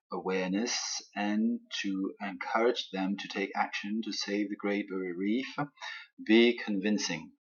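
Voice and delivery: slow, deliberate English read-out; measured teacher's dictation pace; reading out instructions. Real, not acted. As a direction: read the task out slowly for learners. Reads out the assignment in English.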